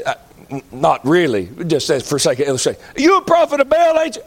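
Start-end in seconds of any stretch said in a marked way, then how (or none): 3.0-4.2 questioner. Pretend. Acted dialogue questioner.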